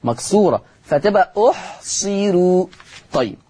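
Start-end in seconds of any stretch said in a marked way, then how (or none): 1.5-2.7 أحصروا with a thin, light r; أحصروا in measured tajweed, the ra thinned. Shown as a demonstration. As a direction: slowly say أحصروا, keeping the final ru unvelarized. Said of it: "الراء مضمومة وقبلها الصاد".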